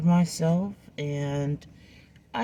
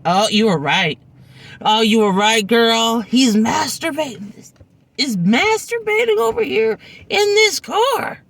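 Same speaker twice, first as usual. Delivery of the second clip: inner realization; 5 semitones higher than usual. Retold or imitated. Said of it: "And my brain went".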